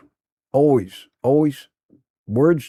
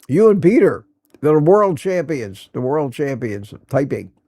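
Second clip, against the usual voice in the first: playful hype; 4 dB louder than usual. Real, not acted. Playful hype for fast typists.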